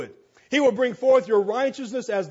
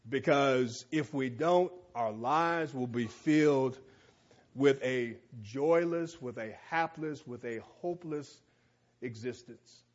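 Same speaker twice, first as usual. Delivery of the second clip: softer and softer to a near hush; fading to a hush; 6 semitones lower, 7 dB quieter than usual. Acted. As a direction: let the voice sink away word by word. Sermon, fading voice.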